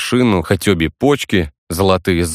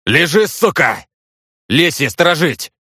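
much higher, slow barked order; angry command; 10 semitones higher than usual. A narrator's reading. Vasilich orders the gypsy boy to stay down, angry shout. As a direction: threaten the attacker while guarding him.

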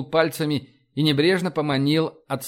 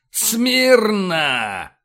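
loud, high, long-held parade order; military command; 7 semitones higher, 5 dB louder than usual. A narrator's reading. Admiral orders officers to attention, bellowing. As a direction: bellow it across the parade ground.

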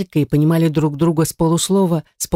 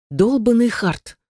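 growling; 6 semitones higher, slower than usual. A narrator's reading. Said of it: "уронила лицо в ладони и зарычала".

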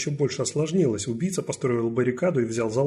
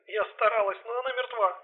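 distressed; 11 semitones higher than usual. Acted. Distressed partner continues.

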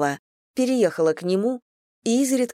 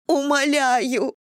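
higher, slow drawn-out wail on Умоляю; wailing plea; 8 semitones higher, much slower than usual. Acted. Irina begs Anna for two weeks, wailing Умоляю. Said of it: "заголосила она".

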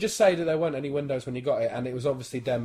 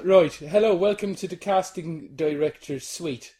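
put-on Irish accent; 3 semitones higher, slower than usual. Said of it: "I'm Irish".

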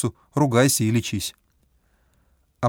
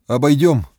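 firm call; 6 dB louder than usual. A narrator's reading. Guide redirects group.

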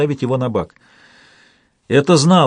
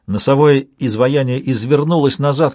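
plain reading voice

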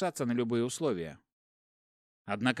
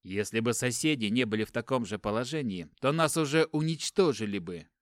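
desperate; 5 dB louder than usual. Acted. Brother defends his choice, desperate.

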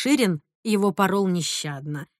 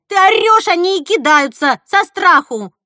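loud, higher scolding; angry retort; 8 semitones higher, 9 dB louder than usual. A narrator's reading. Girl scolding cousin for screaming, angry. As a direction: snap back at her. Sisters quarrel.

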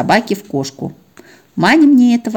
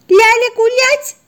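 very high, slow puppy voice in disbelief; a pup who can't believe her luck; disbelieving puppy; slower than usual. Acted. Puppy checks if she may go for a walk, high disbelieving. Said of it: "не поверив своим ушам, решила уточнить".

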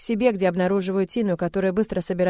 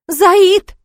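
high, very loud shout of alarm; shouted cry; 12 semitones higher, 14 dB louder than usual. Acted. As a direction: scream his name from the doorway to stop him. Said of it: "выкрикивает мама с порога". (мама кричит мужу с порога, очень громко и высоко)

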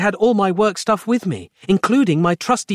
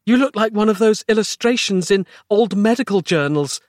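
gasped remark; 9 semitones higher than usual. A narrator's reading. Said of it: "she gasped".

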